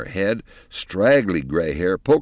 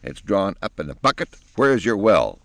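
angry and decisive; 3 dB louder than usual. Acted. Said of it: "angry little fairy godmother decisively".

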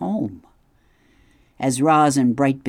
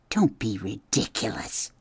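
brisk wife beaver; 4 dB quieter than usual. A narrator's reading. Missus Beaver interrupts her husband, dismissive. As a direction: wave her husband's worry away.

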